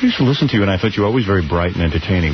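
a hint of a smooth suitor; sweet talk. Shown as a demonstration. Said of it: "A little sweet talk".

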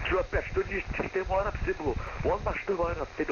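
voice changer. Acted. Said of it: "ça sert à rien d'utiliser des modificateurs de voix".

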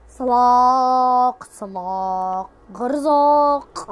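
loud scolding; loud half-joking scolding; angry insult. Real, not acted. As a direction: bark the insults at yourself. Insulting himself after the miss.

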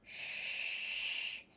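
soft low hiss to hush; quiet them down fast; shushing. Acted. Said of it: "said Nong".

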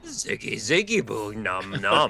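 Star Wars voice. Pretend. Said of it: "Why do I get Star Wars voice".

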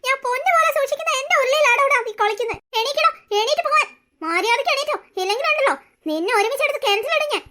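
high-pitched, indignant telling-off; angry scolding. Acted. Grandmother ordering children out of her prized vessel, angry scolding. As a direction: scold them with real alarm for the vessel.

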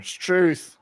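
mock Australian accent. Shown as a demonstration. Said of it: "I could do an Australian one better".

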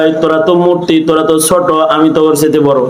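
Ibrahim to idols. Retold or imitated. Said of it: "Ibrahim আলাইহিস সালাম বলে".

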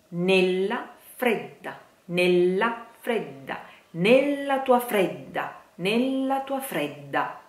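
fredda with the first E stressed and open. Shown as a demonstration. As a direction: lean on the E of fredda. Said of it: "stress on the first E".

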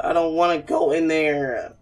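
slow, drawn-out whine; reluctant dread. Real, not acted. Player must enter a scary room, whiny dread. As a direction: stretch the words out, dreading what waits.

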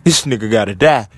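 low, loud, murderous; deep angry voice. Acted. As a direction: growl it like pure rage. Inner voice arguing.

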